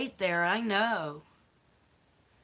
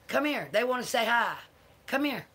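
higher-pitched call to a pet; coaxing a dog; 3 semitones higher than usual. Real, not acted. Owner calls her dog to greet viewers, coaxing. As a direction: coax the little dog over.

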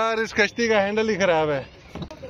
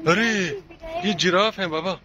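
ordinary talk, nothing marked

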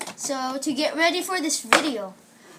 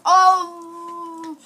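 pained laugh; laughing groan; 3 semitones higher, 4 dB louder than usual. Real, not acted. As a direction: laugh through the sourness. Laughing after sour spray.

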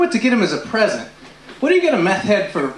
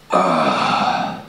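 Gollum voice; 6 semitones lower, much slower than usual. Retold or imitated. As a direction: hiss my precious like Gollum. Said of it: "I love that impression".

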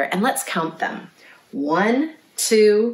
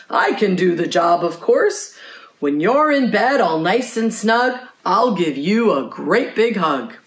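hearty Missus Horse; 2 semitones higher, 3 dB louder than usual. A narrator's reading. Voices Missus Horse in the story.

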